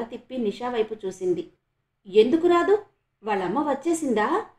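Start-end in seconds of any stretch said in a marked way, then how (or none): 2.1-4.5 eager. Acted. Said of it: "ఆత్రంగా అడిగింది".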